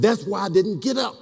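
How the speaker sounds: laughing punchline. Real, not acted. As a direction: land the joke through a laugh.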